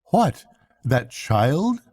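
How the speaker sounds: light, breezy brush-off; lightly. Acted. Mole dismissing Rat's worry about Portly, lightly. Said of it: "said the mole, lightly".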